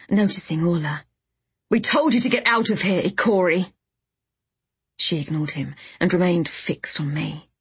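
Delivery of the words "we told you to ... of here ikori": shouted order. A narrator's reading. An heir orders the Ikori to leave, shouting. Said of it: "shouted one of the heirs".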